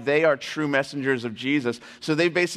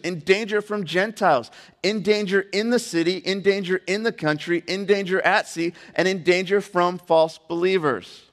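building list of hardships read aloud; insistent, rhythmic preacher's reading; emphatic scripture reading; 3 semitones higher than usual. Acted. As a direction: drive through the repeated phrases with mounting insistence. Reads Paul's list of hardships.

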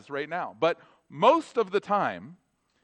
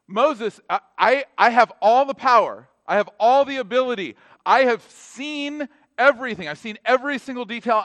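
loud, proud declaration of power; booming voice of God; 6 semitones higher, 9 dB louder than usual. Acted. God declares his power to Moses, booming. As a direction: proclaim it like God reassuring Moses. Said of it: "And so he says".

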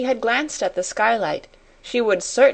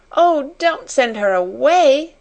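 higher, drawn-out plea; tearful plea; 7 semitones higher, 5 dB louder, slower than usual. A narrator's reading. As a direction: plead slowly on a raised pitch, lightly tearful. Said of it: "she sobbed".

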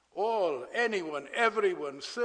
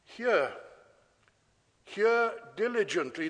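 Hear weighted and set apart by a long pause; stress on hear. Shown as a demonstration. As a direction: lean hard on each Hear. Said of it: "the stress ... is on the verb hear".

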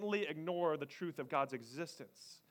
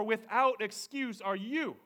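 "without" up front, slow; slow Yoda-order line, "without" stressed; 4 semitones higher, slower than usual. Shown as a demonstration. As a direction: hit "without" in "without excuse are you". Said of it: "He's emphasizing".

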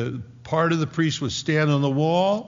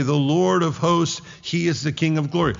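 firm priestly declaration back to the wall; proclaimed answer; 3 semitones higher than usual. Acted. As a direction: answer the challenge with a mild proclaiming lift. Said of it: "what's getting screamed on the walls".

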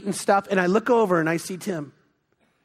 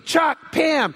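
happy call; 6 semitones higher than usual. Retold or imitated. Tim calls out, happy to see them.

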